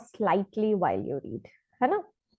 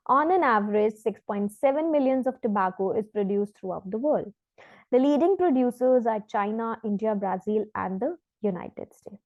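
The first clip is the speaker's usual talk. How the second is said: slow, careful reading of a test passage; measured demo reading; exam read-aloud; much slower than usual. Shown as a demonstration. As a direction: read it out like a model answer. Reads example passage aloud.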